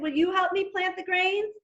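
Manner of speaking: a lightly voiced little hen asking a friend. Hen asks cow for help.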